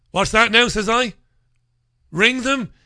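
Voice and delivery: high incredulous question. Retold or imitated. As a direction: ask it in disbelief. Retold disbelief at the vet.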